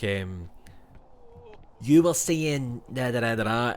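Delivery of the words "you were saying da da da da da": Scottish impression. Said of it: "The Scottish fella who's like".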